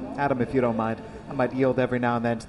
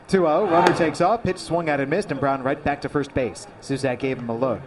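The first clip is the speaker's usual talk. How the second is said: play-by-play. Acted. Live baseball call.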